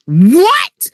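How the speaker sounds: high, rising cry of disbelief; shocked. Retold or imitated. Mother hearing what he told her son, shocked. Shock at the weed man's words.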